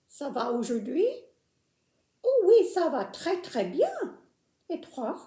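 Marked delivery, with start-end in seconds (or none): 2.2-3.9 excited puppet voice. Acted. Puppet answers cheerfully.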